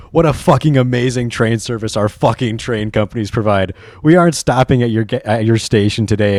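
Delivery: put-on British accent, lightly exasperated; mock British rant. Streamer reading a British train complaint, mock-irate British accent. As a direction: read it as a sarcastic British complaint.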